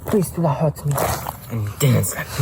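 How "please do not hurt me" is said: much higher pleading troll; scared troll pleads with the hero, much higher; frightened begging. Acted. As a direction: beg not to be hurt. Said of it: "Dwayne's like".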